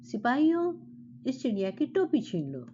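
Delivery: king barking an order at his guards; angry royal shout. Acted. King angrily orders guards to seize the bird's cap, shouting. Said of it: "राजा गुस्से से चिल्लाया".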